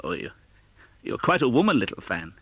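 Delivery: put-on young Scrooge, fondly exclaiming; a boy delighted by his sister. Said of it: "exclaimed the boy".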